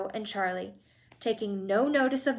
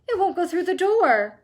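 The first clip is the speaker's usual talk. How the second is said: high and louder, chuckling; laughing; 8 semitones higher, 6 dB louder than usual. A narrator's reading. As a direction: laugh through the objection. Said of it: "said Grandpa Joe".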